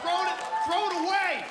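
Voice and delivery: sneering scold, loud and high; mock angry parent. Parent scolding the kids, angry and loud.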